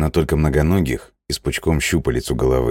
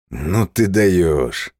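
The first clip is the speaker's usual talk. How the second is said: amused disbelief; 3 semitones higher, much slower than usual. Acted. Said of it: "говорю я".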